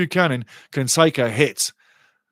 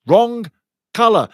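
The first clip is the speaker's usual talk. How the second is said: angry protest; 6 semitones higher, 4 dB louder than usual. Real, not acted. Protesting to referee again.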